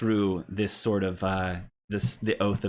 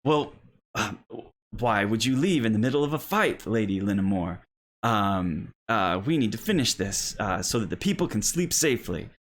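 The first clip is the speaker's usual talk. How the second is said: lightly voiced boy hero, a little raised; Cole; 3 semitones higher than usual. Cole urges his playmate to finish the fight, mildly heroic. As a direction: stay in the game as a young knight. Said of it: "and Cole says".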